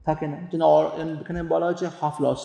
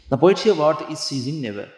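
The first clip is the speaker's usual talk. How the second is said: poetry reading; much slower than usual. Shown as a demonstration. Teacher reading poem aloud.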